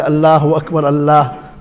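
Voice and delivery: Allah with a thin, light l; incorrect empty mouth. Shown as a demonstration. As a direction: flatten Allah to a light "al-laah". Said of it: "it wouldn't sound correct".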